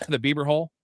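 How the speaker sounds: "hole" leaned on and stretched with a rising tune; stress on hole. Shown as a demonstration. Joking to his co-host, stretching "hole" with a rise. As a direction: land hard on "hole" in "the Bieber hole". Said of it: "I wanna emphasize the word hole".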